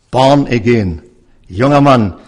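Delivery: laut und fordernd ausgerufen; eindringlicher Ruf. Acted. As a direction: den Zuhörer direkt anrufen, kräftig und laut. Prediger ruft Zuhörer direkt an. (lauter, eindringlicher Appell an den Zuhörer)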